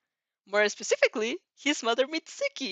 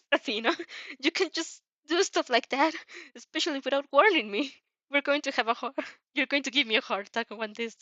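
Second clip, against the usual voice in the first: flustered panic; 5 semitones higher than usual. Acted.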